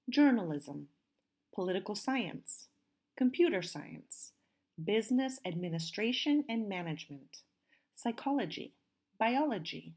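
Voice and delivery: clearly enunciated word list with falling endings; careful model pronunciation. Shown as a demonstration. Teacher models words for students to hear, careful pronunciation. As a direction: read each term out as a pronunciation model. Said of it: "please listen as I pronounce these".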